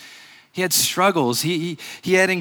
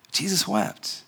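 almost breathless, much softer, slowly; hushed repeat; 8 dB quieter, slower than usual. Acted. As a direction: let "Jesus wept" fall to a near hush.

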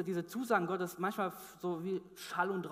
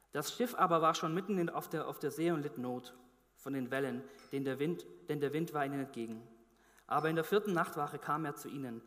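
scripture reading. Acted. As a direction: read the passage to the congregation. Reads Bible passage aloud. (feierliche Bibellesung)

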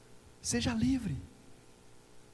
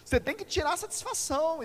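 higher, pushy inner voice; soul crying out; 10 semitones higher than usual. Retold or imitated. His soul urging him to confront, mock insistent. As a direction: let the soul demand its due. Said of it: "a sua alma grita".

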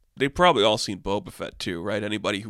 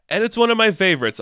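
higher, a touch of a posh voice; posh-sounding; 8 semitones higher, 4 dB louder, faster than usual. Real, not acted. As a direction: put on a hint of refinement. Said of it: "I know I sound so, is it posh?".

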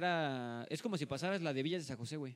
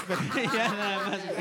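laughing through the words, louder; 5 semitones higher, 8 dB louder than usual. Real, not acted. To friends teasing him about crying, laughing. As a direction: chuckle it out.

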